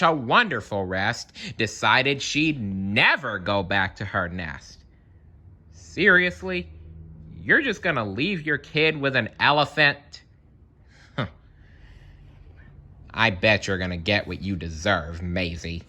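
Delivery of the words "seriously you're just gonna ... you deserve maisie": scolding aside. Real, not acted. Reader's own aside to the bird.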